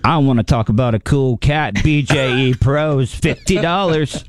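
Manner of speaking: sexy voice. Acted. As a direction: try to sound sexy and smooth. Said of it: "go with the sexy voice".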